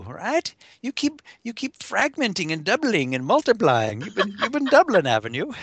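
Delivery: put-on high Irish leprechaun accent. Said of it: "you sound like a leprechaun".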